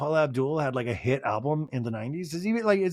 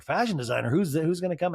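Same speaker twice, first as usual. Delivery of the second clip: questioning echo in own voice; puzzled reaction. Retold or imitated. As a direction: wonder aloud who is coming. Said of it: "And I was like".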